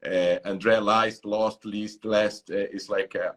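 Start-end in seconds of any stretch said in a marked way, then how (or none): 0.4-2.5 "Leist, lost, list, last" as a run of different vowels; varied mispronunciations. Retold or imitated. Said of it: "a bunch of, uh, pronunciations".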